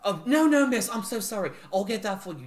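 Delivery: very high, loud apologetic fluster; panicked maid. Acted. Nancy hurrying to pick up glass, high and frantic. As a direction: rush to apologise.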